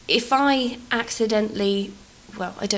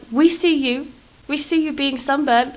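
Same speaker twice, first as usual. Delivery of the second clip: mock Italian accent; 5 semitones higher, 4 dB louder than usual. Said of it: "attempt an Italian accent".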